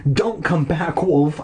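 mild plea, pitched slightly up; pleading. Acted. Boy silently begging his dog to stay away, pleading. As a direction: plead with a light touch. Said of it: "I pleaded silently".

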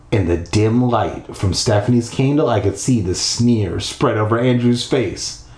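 measured storytelling read; story narration. A narrator's reading. Narrator leading listeners through a creepy house, storytelling voice. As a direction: read it out with deliberate pacing.

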